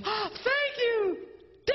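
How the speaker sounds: high, slow thrilled thank you; very high, slow delighted thanks; delighted wife. Retold or imitated. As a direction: gush like a wife given roses. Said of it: "and she goes".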